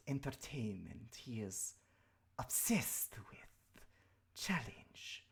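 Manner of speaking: quiet hissing serpent whisper; scheming snake creature voice. Acted. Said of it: "I have to speak with the snake voice".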